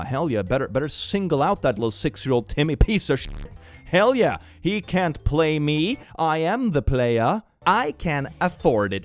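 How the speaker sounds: loud, hammed-up bragging mom; mock gloating. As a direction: strut like a petty mom. Mocking the petty mom.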